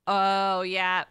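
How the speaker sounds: ordinary delivery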